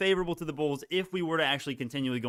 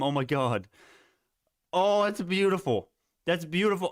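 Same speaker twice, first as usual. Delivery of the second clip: usual speaking voice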